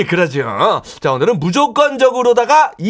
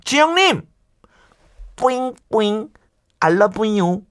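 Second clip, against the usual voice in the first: put-on cringey baby-talk aegyo; breathy cutesy giggly. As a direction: coo it like a cutesy aegyo act. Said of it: "밥맛 떨어지는 소리를 좀 제가 해드릴까요". (숨소리 섞인 애교 말투)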